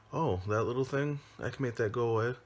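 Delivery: put-on sweet-talking the girl like a sly predator; creepy clown.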